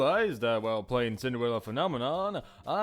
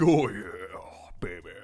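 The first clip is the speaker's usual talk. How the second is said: breathy whispered croon; husky, airy love croon; vocal fry; 4 semitones lower than usual. Shown as a demonstration. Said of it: "There's always that vocal fry".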